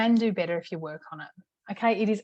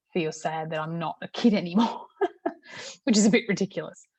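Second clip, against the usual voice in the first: laughing through the words; 2 semitones lower than usual. Real, not acted. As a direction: giggle it out, a bit embarrassed. Laughing at own childhood nostalgia.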